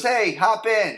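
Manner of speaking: high excited call to a friend. Retold or imitated. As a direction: call out to her friend to jump in. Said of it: "she goes".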